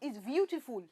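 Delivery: Hausa accent, softened first consonant. Shown as a demonstration. Host finishing the challenge, Hausa accent. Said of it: "should I say Hausa".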